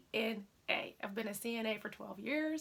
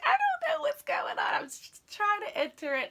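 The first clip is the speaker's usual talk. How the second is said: panicked whisper; 6 dB louder than usual. Retold or imitated. Panicking over website birthday error.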